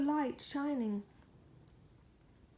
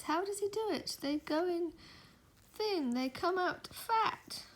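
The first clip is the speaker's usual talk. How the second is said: ad voice; 6 semitones higher than usual. Pretend. Reading the picture caption like a cheesy ad. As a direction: sell it like a commercial.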